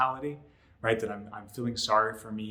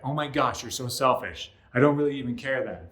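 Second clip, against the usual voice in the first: angry. Retold or imitated. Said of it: "I might be like".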